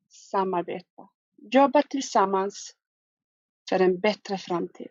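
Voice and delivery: reading with a smile in the voice; smiling voice. Real, not acted. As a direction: grin through the words. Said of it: "You're really enjoying this one, though".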